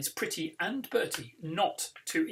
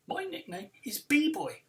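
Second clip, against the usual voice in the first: proud announcement; 7 semitones higher, 4 dB louder than usual. Acted. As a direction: announce it higher and louder, chest out. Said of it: "I announce".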